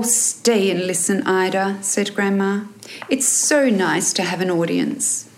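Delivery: measured audiobook reading with lifted character lines; story narration. A narrator's reading. Author reading her novel to listeners, story narration. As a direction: read the excerpt as a storyteller.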